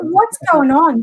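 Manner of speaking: slow, bewildered mock cry; exasperated. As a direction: play up the frazzled mum losing it. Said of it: "I was like".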